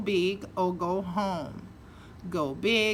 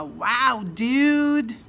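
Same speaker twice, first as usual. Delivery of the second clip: amazed wow; 3 semitones higher, 5 dB louder than usual. Shown as a demonstration. Hearing a friend got into Harvard, delighted shout. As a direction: cheer it like great news just landed. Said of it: "depende da entonação".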